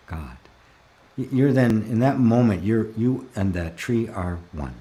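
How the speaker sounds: normal talking voice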